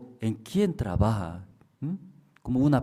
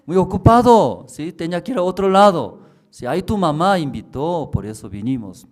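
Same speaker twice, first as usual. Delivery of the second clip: put-on high, loud flustered young woman; hammed-up busy excuse; a woman brushing off visitors, high and loud; young woman's excuse; 7 semitones higher, 8 dB louder than usual.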